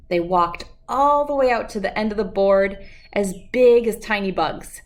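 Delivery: gentle, lively storybook reading; reading to children. Acted. Reading Jabari Jumps aloud to children, storybook voice. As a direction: read the picture book to the kids. Reads picture book aloud.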